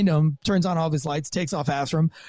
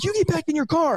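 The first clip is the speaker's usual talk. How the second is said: much higher, firm mock yell; barked command; 10 semitones higher than usual. Cop retelling ordering the driver back, mild mock yell. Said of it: "I'm like".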